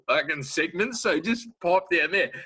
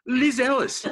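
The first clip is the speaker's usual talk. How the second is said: higher and louder, calling her out; called out; 8 semitones higher, 4 dB louder than usual. Acted. Calling out Liz Ellis, louder and higher. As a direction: call her name out across the room.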